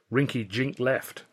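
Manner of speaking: ordinary delivery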